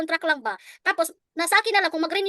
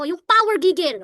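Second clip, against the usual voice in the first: forceful; 5 dB louder than usual. Shown as a demonstration. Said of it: "dapat yung gigil mo".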